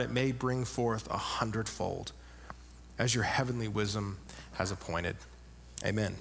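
solemn congregational prayer voice. Real, not acted. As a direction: humbly pray it aloud to God. Opening prayer before the text.

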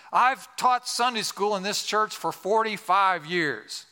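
slow, high, emphatic declaration; pointed tone. Retold or imitated. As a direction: imitate a church boss asserting his standing. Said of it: "with a tone".

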